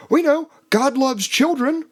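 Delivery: high mocking voice; squeaky parody of pious officials. Mocking church leaders' quote.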